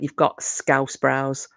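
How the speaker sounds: P=A; slow repeat. Retold or imitated. Friend repeats after "You what?.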